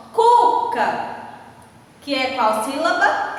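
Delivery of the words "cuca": Cuca with a high, held "Cu", dropping on "ca"; stress on first syllable. Shown as a demonstration. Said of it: "Uma sílaba mais forte". ("Cuca" com o "Cu" agudo e alongado)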